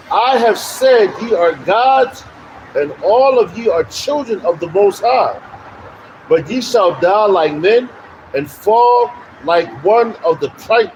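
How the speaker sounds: slow, emphatic scripture reading. Acted. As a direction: declaim the verse slowly, stretching the key words. Reads scripture aloud.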